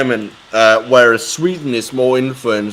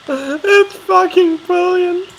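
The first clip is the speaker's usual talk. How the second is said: laughing through the words; cracking up with laughter; slower than usual. Real, not acted. Laughing at the video.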